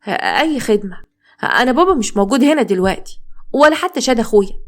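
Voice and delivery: put-on nervous young woman, faltering then hurried. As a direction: stammer it out like a flustered girl at the door. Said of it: "خديجة بتوتر".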